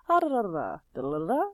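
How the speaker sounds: nonsense syllables swooping down then up; lilting da-da-da melody; sing-song French lilt. Shown as a demonstration. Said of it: "French have that sing-song in their voice".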